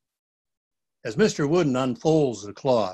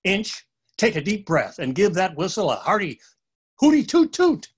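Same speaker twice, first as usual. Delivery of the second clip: shouting; 3 semitones higher than usual. Acted. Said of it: "Miles shouts".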